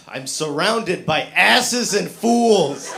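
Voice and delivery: slow, grand kid's put-on Shakespearean tone; a toddler playing a haughty Shakespeare king, lightly done; mock Shakespearean. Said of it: "like, Shakespearean confidence".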